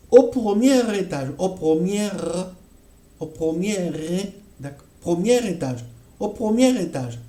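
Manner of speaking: "premier étage" linked with an r; natural liaison demo. Shown as a demonstration. Teacher showing students the natural liaison in "premier étage". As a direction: run "premier-r-étage" together without a stop. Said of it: "pour dire".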